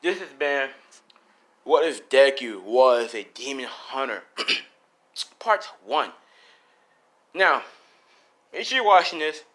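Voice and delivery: loud, punchy sign-off; YouTube outro. Real, not acted. Host signing off the video, loud outro. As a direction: project it to the subscribers.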